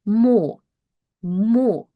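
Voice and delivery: "mo" with a full o; "mo" modelled on its own, full vowel; blended syllable. Shown as a demonstration. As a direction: blend m and o into one "mo". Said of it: "Together we read them as".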